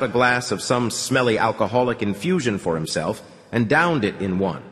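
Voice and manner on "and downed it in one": usual speaking voice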